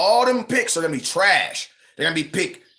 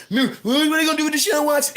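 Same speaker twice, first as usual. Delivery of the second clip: high, laughing incredulous question; laughing disbelief; 10 semitones higher than usual. Retold or imitated. Streamer retelling his own scoff at the Watson trade, high and laughing. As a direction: laugh it off as absurd.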